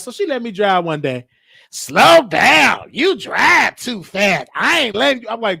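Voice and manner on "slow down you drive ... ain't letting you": a hint of a scolding grandmother, slower; light imitation of grandma telling him to slow down; lightly voiced grandma scolding. Grandma scolds his driving.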